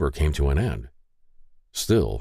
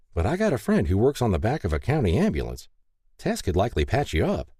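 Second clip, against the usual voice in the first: lightly voiced helper, pitched higher; helpful Mary; 4 semitones higher than usual. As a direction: suggest help in a higher, neighborly voice. Narrator voices Mary offering help.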